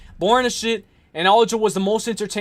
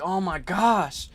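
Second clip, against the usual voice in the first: slow, softer exasperated groan of words; annoyed dog; 4 semitones lower, 7 dB quieter, slower than usual. Pretend. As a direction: voice a fed-up dog, drawn out. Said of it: "My dog is like".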